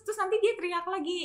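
ordinary talk, nothing marked

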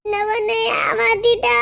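slow, tearful wail of betrayal; crying slowly, telling how she was cheated; crying complaint. Acted. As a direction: sob it out to the friend, slowly. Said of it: "ஏன் அழுதுட்டு நிக்கிறீங்க?".

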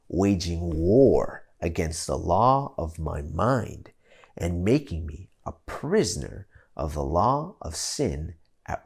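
slow, measured Bible reading; scripture reading. Acted. Preacher reading Paul's letter to the church, slow. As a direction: read the verses slowly and gravely. Reads Romans seven aloud.

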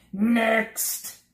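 loud, high clerk's call; official announcement. A narrator's reading. Census taker calling the next traveller, loud official call. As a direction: bark out the next in line. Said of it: "he announced very officially".

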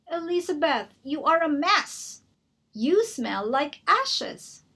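lightly voiced haughty prince; a hint of a sniffy prince looking down; snooty prince. Prince Ronald scolding Elizabeth, mildly snooty.

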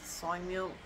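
ordinary talk

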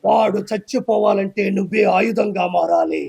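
slow, grave voice of a mystic seer; lightly voiced ascetic pronouncing fate; solemn seer. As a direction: intone it like a prophecy. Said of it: "అదంతా చూసి".

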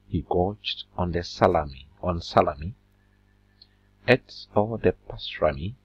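bouncy, rhythmic poem reading; limerick recitation. Acted. Teacher reciting a limerick to the class, rhythmic. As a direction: recite it with a sing-song beat.

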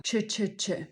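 "czy, czy, czy" in short quick bursts; three short, softened repeats of "czy". Shown as a demonstration. Teacher drills the word's opening sound, quick czy. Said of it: "z szybkim czy na początku słowa".

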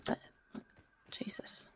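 breathless frightened whisper; scared whisper. Real, not acted. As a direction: whisper it in dread. Whispered in fear.

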